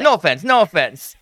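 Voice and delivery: a clumsy put-on Russian accent, dragging no fence; mock Russian accent. Podcaster imitating the Russian patient about the fence, clumsy Russian accent. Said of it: "I can't do a Russian accent".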